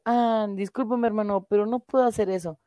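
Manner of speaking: overly polite apology. Retold or imitated. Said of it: "no puedes ir y le dices".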